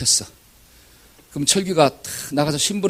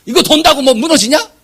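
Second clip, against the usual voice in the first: high, scoffing grumble; mock-indignant complainer pitched high; complaining scoff; 11 semitones higher, 4 dB louder than usual. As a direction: sneer at the pointless order. Mocking complainer voiced.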